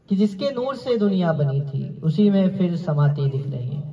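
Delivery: measured ghazal verse; restrained mushaira delivery; poetry recitation. Acted. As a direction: recite the couplet, letting it settle downward. Recites closing couplet again.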